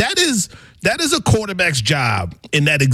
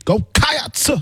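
preacher-like attempt; 11 semitones higher than usual. Shown as a demonstration. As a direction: go Cats, higher, Cats swung like a preacher's call. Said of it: "you sound like a black preacher".

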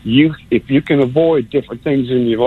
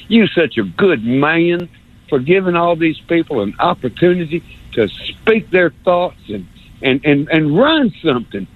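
North Alabama accent. Shown as a demonstration. Caller redoes his compliment to Paul in a mild North Alabama accent. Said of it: "I love this North Alabama accent thing".

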